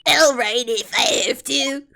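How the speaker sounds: reluctant Cockney character; Cockney accent. Acted. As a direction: give in grudgingly in Cockney.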